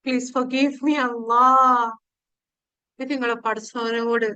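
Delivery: ordinary talk, nothing marked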